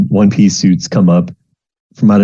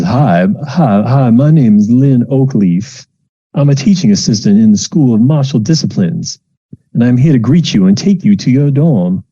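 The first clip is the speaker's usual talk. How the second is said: cheery TA; 4 semitones higher than usual. Acted. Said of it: "and says".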